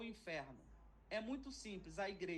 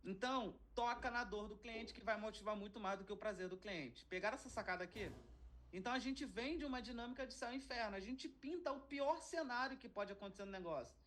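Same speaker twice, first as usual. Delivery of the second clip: usual speaking voice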